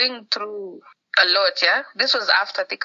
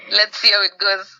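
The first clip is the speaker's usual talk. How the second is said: a doctor laughing gently at a naive plan; 5 dB louder than usual. Retold or imitated. Doctor laughing at the patient who wants to stop the drugs early, amused. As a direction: chuckle the words out, amused.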